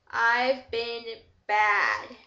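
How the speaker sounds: very slow, sheepish admission; slow confession. Acted. Edward confesses to Dad, slow and sheepish. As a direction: drag out the confession with shame. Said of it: "he looked up and confessed".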